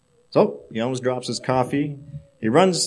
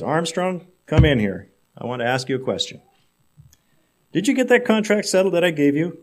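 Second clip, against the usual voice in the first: angry boss; 4 semitones higher, 3 dB louder than usual. Acted. Boss summons his sales director.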